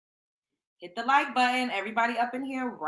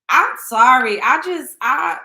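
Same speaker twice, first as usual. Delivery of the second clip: laughing; 12 dB louder than usual. Real, not acted. Cracking up at the story.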